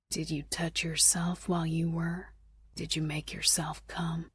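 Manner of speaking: breathy hushed question; whispering. Acted. Intimate whispered question in bed.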